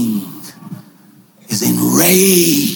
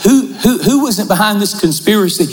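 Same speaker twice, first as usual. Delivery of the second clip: king demanding; 5 semitones higher, faster than usual. Acted. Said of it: "He says".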